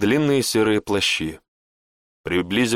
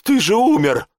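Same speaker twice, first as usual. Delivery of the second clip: much higher, loud disbelieving shout; shocked outcry; 12 semitones higher, 5 dB louder than usual. Acted. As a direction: shout it in horror. Shock at seeing a dead man.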